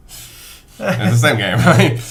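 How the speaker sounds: laughing. Real, not acted. Laughing, teasing.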